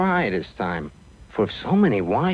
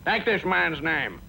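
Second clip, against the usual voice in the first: inspecting man's order; 3 semitones higher than usual. Acted. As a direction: draw out the command a little. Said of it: "And then the man ... say".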